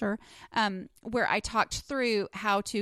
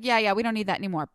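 put-on quick, louder New York accent, lightly done; 4 dB louder, much faster than usual. Mimicking the TV producer on the phone, light New York accent. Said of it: "that's my New York accent".

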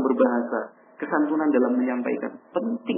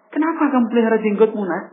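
raised, reproachful fatherly voice; a father scolding his son about his beard, raised pitch; 10 semitones higher, 4 dB louder than usual. Acted. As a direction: chide the boy, pitch up.

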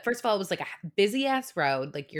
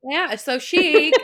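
gushing; 8 semitones higher, 8 dB louder, much slower than usual. Acted. Gushing over Jamie Lee Curtis.

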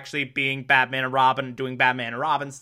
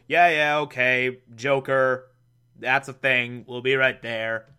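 unbothered, low-energy brush-off; indifferent; 3 semitones lower than usual. Acted. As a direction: answer as if you barely care. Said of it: "very indifferent at the moment".

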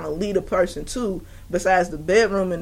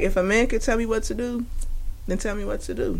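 quoting a singer; 7 dB quieter than usual. Retold or imitated. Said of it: "That's exactly how she said it".

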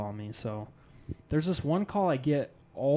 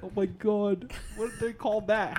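high, mock-panicked inner voice; scared what-do-I-do voice; retold panic; 6 semitones higher than usual. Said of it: "I was so scared".

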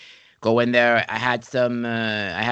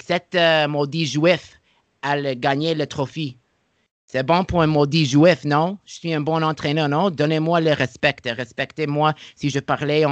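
gloating comeback; 3 semitones higher than usual. Retold or imitated. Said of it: "I'm like, I'm like".

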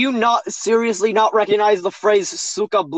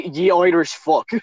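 slow, hammed-up Irish accent; 2 semitones lower than usual. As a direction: drag out a mock Irish sign-off. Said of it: "read it in an Irish accent".

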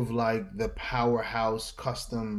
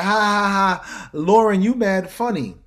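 loud, high forced laugh while joking; 8 semitones higher, 8 dB louder than usual. Retold or imitated. Joking with his boss, loud high laughing. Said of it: "So she stops".

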